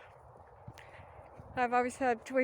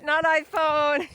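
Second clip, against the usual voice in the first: high squeaky voice; 6 semitones higher, 10 dB louder, slower than usual. Pretend. High emphatic correction.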